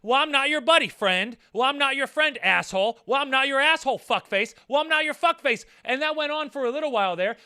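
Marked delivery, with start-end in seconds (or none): 0.0-5.6 louder, higher trading of road-rage jabs; mock escalating insults. Drivers one-upping each other, a hammed-up angry yell. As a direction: toss the insults back and forth.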